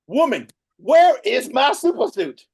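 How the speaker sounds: loud, slow mock accent; hammed-up loud accent impression; bad Frozone impression. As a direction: belt it out like an angry hero demanding his suit. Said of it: "I don't know why I did that accent".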